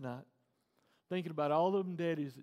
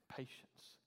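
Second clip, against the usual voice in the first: whispered, drawn out; whispered word; 21 dB quieter than usual. Acted. Pastor to congregation, a whisper. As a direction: breathe the word softly.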